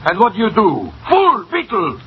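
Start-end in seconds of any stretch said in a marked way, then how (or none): 1.1-2.0 angry insult. Acted. Victor insults Maxwell.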